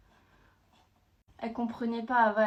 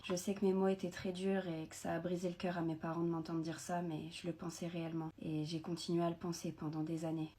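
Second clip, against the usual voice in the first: sad story narration; 5 dB quieter than usual. Acted. Tells a sad first-person story.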